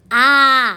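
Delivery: आ held long and steady; sustained open आ; long आ sound. Shown as a demonstration. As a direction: draw out आ as one open vowel for learners. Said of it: "अब आ लिखने का प्रयास कीजिए".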